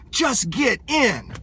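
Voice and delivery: slow and easy, "Just get in." said gently, drawn out; calm, slow invitation. Shown as a demonstration. Coach to hesitant prospect, gentle slow nudge. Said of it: "Just say".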